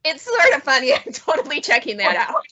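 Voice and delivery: lightly voiced sheepish amusement, with a laugh; won-over listener. Presenter imitates audience members who are tempted, amused. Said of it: "those of you that are like".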